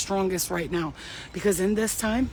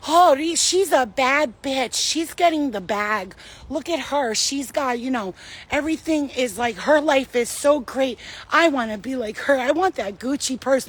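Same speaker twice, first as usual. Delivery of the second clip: mock admirer; 4 semitones higher than usual. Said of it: "everybody is over there like".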